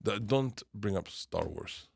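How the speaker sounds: put-on Croatian accent. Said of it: "Eva, who's from Croatia".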